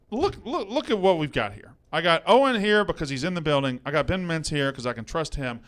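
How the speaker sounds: scolding a cohost who never shows up; angry rant. Real, not acted. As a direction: tear into him, building as you go.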